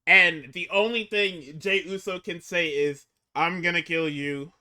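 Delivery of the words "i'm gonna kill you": deadpan threat. Retold or imitated. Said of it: "In the same tone that I basically said it".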